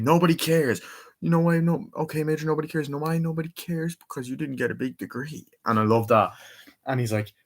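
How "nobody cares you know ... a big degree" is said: lightly imitated dismissive villain, higher voice; mock-belittle an underling; pitched-up, hammed-up put-down; Robotnik. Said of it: "Doctor Robotnik".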